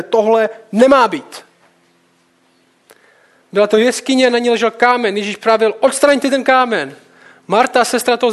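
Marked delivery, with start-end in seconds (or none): 0.0-1.4 slow, louder burst of indignation; seething indignation. Acted. Preacher voicing Jesus at the tomb, seething. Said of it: "vyloženě to v něm vře". 5.8-7.0 slow, higher, indignant order; indignant command. Acted. Jesus ordering the stone moved from the tomb, indignant.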